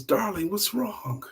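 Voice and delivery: softly worried, drawn out; concerned husband. Acted. Husband asking his sobbing wife what's wrong, gently concerned.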